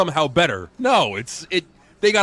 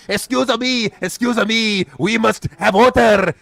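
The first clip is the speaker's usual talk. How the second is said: higher, hammed-up Santino Marella mimic; mocking Santino; 6 semitones higher, 5 dB louder, slower than usual. Mocking the wrestler to his co-host, higher and put-on. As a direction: poke fun at the announcer's fussy plea. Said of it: "they had Santino Marella come out".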